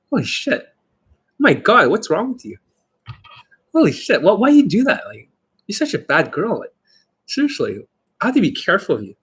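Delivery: playful, high swooping teasing. Shown as a demonstration. Dating coach shows how he flirts with women, teasing. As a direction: tease with big pitch swings. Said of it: "even when I'm teasing".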